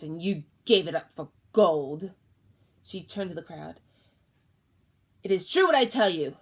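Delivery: loud, accusing crone; yelling. Acted. Old woman to crowd, loud accusing yell. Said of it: "she was suddenly yelling".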